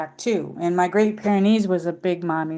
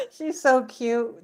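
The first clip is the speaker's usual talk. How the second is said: higher, slow doting coo on "She's so cute"; cooing over the dog; 4 semitones higher, slower than usual. Retold or imitated. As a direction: coo it to a pet, drawn out. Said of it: "I'm like".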